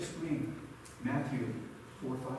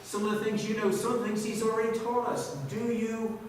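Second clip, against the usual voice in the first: impassioned preaching; 8 semitones higher, 6 dB louder than usual. Real, not acted. Preaches at full force.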